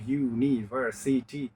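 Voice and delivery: "ইউনিভার্সিটি" lightly separated into syllables. Shown as a demonstration. Teacher recalling a polysyllable example, "ইউনিভার্সিটি" syllable by syllable. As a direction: mark each syllable of "ইউনিভার্সিটি". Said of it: "ওইটাও polysyllable".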